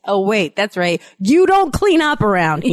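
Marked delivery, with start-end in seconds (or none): 1.2-2.7 higher-pitched, exasperated telling-off; mock scolding. Parent telling off child who never helps, mock scolding.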